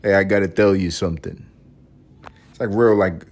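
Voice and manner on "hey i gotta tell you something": put-on old New York accent; old New York street talk; old-time New Yorker. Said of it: "old time New Yorker".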